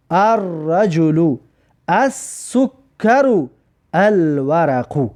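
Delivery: very slow, drawn-out Arabic word list; slow model reading. Shown as a demonstration. Teacher reading example words to students, slow model reading. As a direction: read each word separately, stretching the vowels.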